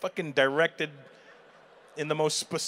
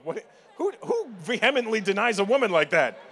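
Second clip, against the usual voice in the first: higher and louder, mock indignant; mock outrage; 6 semitones higher, 6 dB louder than usual. Real, not acted. Comic to couple denying each other, indignant. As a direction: protest in hammed-up disbelief.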